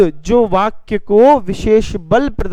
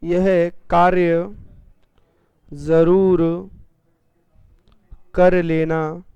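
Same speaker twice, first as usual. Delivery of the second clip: slow, pausing before जरूर; slow emphatic; much slower than usual. Shown as a demonstration. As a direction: dictate it slowly, weight on जरूर. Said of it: "विशेष बलता आ रही है". ("जरूर" पर रुक-रुक कर ज़ोर)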